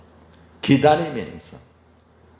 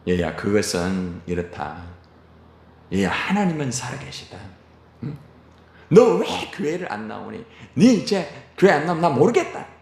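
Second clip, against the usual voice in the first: lecturing parent. Retold or imitated. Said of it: "안 됩니다".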